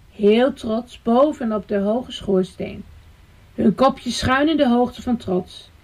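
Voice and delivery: put-on measured storytelling for small children; story narration. A narrator's reading. Storyteller leads children up to the attic, story narration. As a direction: tell it to little listeners, phrase by phrase.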